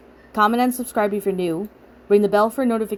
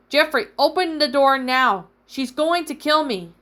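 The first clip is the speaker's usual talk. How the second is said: panicked yelling; 5 semitones higher than usual. Acted. Pounding door, chased by killer.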